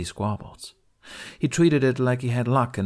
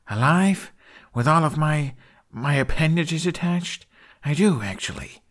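sarcastic retort; 7 semitones higher, 3 dB louder than usual. Acted. Sarcastic retort under threat.

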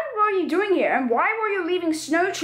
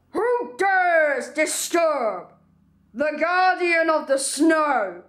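ancient iron golem; much slower than usual. Acted. Snow guardian introduces himself.

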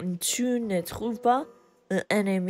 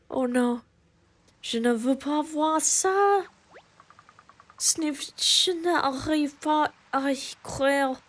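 higher, dismayed forest creature; sad character voice; 4 semitones higher than usual. Acted. Player voicing a grieving spirit's lament to Link, lightly higher. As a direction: read it like a shocked little forest spirit.

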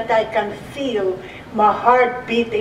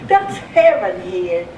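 chuckling, back to her usual pitch; laughing repeat; 3 semitones lower than usual. Retold or imitated. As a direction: laugh it out, savouring the memory.

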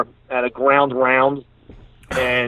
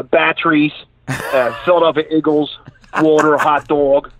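put-on Philly accent. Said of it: "my mom's got a really thick Philadelphia accent".

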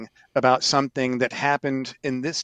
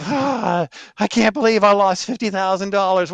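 frustrated groan; 6 semitones higher, 6 dB louder than usual. Retold or imitated. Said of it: "instead of".

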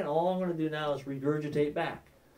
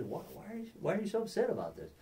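gentle question; 5 semitones higher, 7 dB quieter, faster than usual. Acted. Soft question to heated person.

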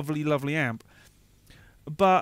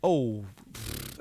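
accidental lips-flapping pff; horse nicker; 7 semitones lower than usual. Real, not acted. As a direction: blow out through the lips like a horse. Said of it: "I didn't mean to do the horse impression".

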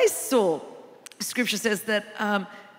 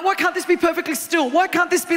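mock freaking out; 2 semitones higher than usual. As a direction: act a mild mock panic over the waves. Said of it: "and I'm, I'm freaking out".

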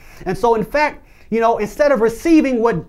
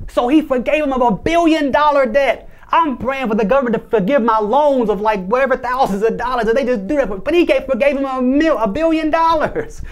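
amazed; 4 semitones higher than usual. Real, not acted. Preacher marvels to the congregation at the forgiven debt, amazed. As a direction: marvel at how huge the debt was.

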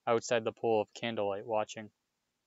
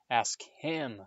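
shriek; 3 semitones higher than usual. A narrator's reading. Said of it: "shrieked Filch".

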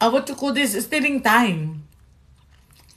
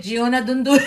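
laughing shout; faster than usual. Real, not acted. Laughing warning to a viewer.

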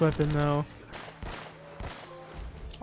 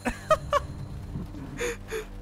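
very high wheezing laughter; laughing; 5 dB quieter than usual. Real, not acted. Player seeing someone slumped out, laughing. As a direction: lose it laughing.

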